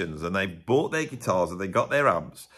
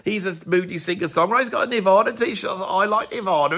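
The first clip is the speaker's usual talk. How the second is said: imitating Rick Beato; 10 semitones higher, 3 dB louder than usual. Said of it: "he comes on and said".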